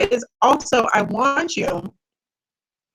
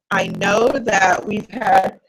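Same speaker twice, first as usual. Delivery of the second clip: talking through a yawn; words stretched by a yawn; 2 semitones lower, slower than usual. Real, not acted. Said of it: "I am so sorry about this yawning".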